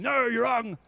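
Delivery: a mild mock shout of correction; shouting them down. Shown as a demonstration. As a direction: tell them off to their face. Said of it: "I don't go and shout at them".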